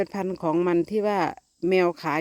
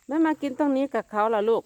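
talking to kittens; 6 semitones higher than usual. Real, not acted. Owner telling kittens the stray won't come, high baby talk. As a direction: croon it to the little ones.

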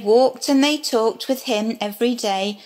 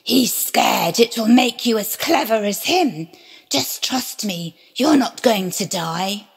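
sly serpent. Acted. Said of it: "the serpent replied".

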